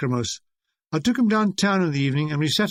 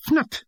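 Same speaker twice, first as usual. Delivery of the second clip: odd snort noise; 9 semitones higher than usual. Retold or imitated. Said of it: "he's fnut".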